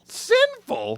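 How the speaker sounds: shrill high disbelief; incredulous. Acted. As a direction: squeak it out in shock. Incredulous repeat.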